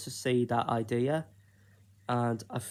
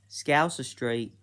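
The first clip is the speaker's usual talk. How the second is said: put-on slow, half-hearted Scouse accent; a lightly put-on Liverpool accent, drawn out slowly; terrible Scouse accent. Pitching a Soccer AM show name in a bad Scouse accent. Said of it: "that was a terrible Scouse accent".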